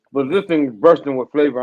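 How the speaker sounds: talking with mouth full. Real, not acted. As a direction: speak through a mouthful. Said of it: "you're talking with your mouth full".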